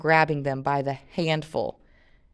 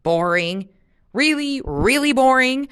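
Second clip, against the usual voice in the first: bored complaint; 8 semitones higher, 8 dB louder than usual. A narrator's reading. Jen complaining about city trip.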